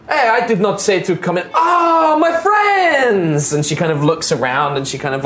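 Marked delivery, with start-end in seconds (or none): 0.1-3.5 put-on Araya's accent. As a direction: boom out the welcome in a strange accent. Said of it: "she's like".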